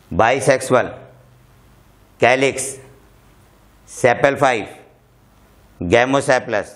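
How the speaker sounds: one term at a time, long gaps; slow dictation. Shown as a demonstration. Teacher leads students through floral formula, slow dictation. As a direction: pause after each term for repetition.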